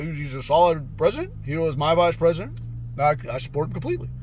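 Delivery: measured public-endorsement imitation, quickening at the end; mock statesman vouching for a colleague; Obama impression. Obama publicly backing the guy, lightly mimicked.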